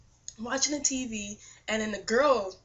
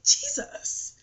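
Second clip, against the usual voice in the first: excited calling; 5 semitones higher, 11 dB louder, much slower than usual. Retold or imitated. Eagerly calling for Jesus.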